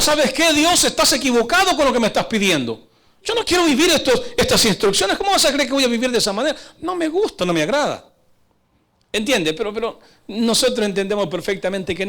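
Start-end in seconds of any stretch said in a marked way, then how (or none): 0.0-8.1 higher-pitched refusal, talking back; defiant believer. Acted. Believer telling God He is mistaken, defiant higher-pitched protest. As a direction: protest like a stubborn believer rejecting orders. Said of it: "Le está diciendo".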